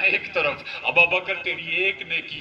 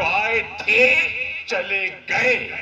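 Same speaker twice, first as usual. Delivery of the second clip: dismissive quote. Shown as a demonstration. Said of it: "یہ الفاظ استعمال کریں".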